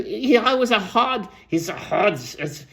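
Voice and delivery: the voice breaks off mid-word; voice giving out. Real, not acted. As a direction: voice cracking and failing. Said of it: "I lost my voice there".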